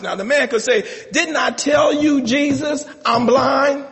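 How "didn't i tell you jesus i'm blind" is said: higher, exasperated complaint to Jesus; mock indignant blind man. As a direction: play the blind man protesting, hammed up.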